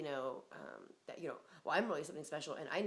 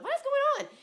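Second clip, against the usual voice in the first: high loud shocked question; mock shock; 11 dB louder than usual. Shocked at the man cooking while a cockroach crawls. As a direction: squeal it in disbelief.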